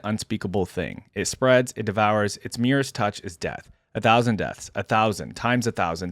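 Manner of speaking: measured, solemn first-person narration; dramatic story reading. A narrator's reading. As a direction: read it like a weary lone warrior's grave account. Reads first-person story aloud.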